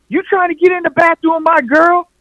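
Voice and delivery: hammed-up angry boyfriend demanding answers. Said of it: "he's coming".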